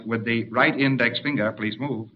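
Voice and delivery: soft, polite order, easing off at the end; understated cheerful politeness, trailing softly; mild cheerful request. Acted. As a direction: ask it gently and pleasantly. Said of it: "in a cheerful tone of voice".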